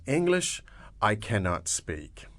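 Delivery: word for word. Shown as a demonstration. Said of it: "literally translated is".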